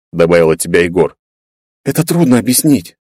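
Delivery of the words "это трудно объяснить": unsure drawl. Acted. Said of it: "неуверенно протянула Вета".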